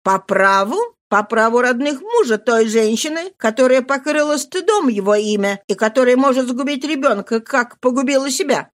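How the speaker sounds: cold accusing aunt. Acted. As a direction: strike her with the charge. Sister-in-law accuses Marie.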